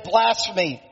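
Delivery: indignant accuser voiced by a preacher; horrified outrage. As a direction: play an appalled high priest with some restraint. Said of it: "tore his clothes in horror".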